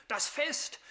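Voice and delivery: "Fest" rising high, resentful; indignant. Acted. Elder son resenting his brother's feast, "Fest" said high and scornful. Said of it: "Wut kochte hoch dem Sohn".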